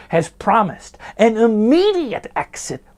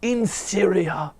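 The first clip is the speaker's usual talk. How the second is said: mock Shakespearean drama; 3 semitones higher, much slower than usual. Hamlet parody, dramatic reading.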